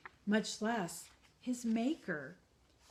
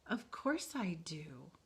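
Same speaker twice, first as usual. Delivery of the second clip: tender whisper; slower than usual. Acted. Maker answers tenderly.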